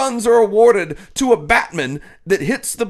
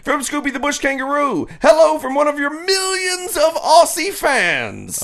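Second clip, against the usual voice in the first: put-on Australian accent; 5 semitones higher than usual. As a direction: read it in a hammed-up Aussie accent. Reading Aussie fan's letter.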